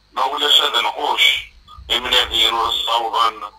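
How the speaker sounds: measured verse delivery with pauses between lines; spoken poetry in rhythmic phrases; poem recitation. Acted. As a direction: recite it line by line, pausing after each.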